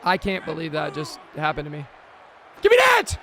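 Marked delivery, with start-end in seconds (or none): 2.6-3.2 high, loud yell for the ball; real shout. Real, not acted. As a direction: bark it, begging for the pick. Yelling for another interception.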